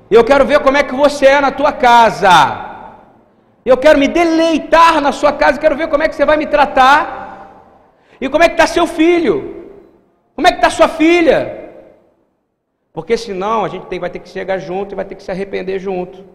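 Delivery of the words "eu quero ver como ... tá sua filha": loud, high-pitched confrontation; heated challenge. Acted. Preacher acting out a challenge to a sister who gives advice, loudly confronting. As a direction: press each demand harder, voice raised.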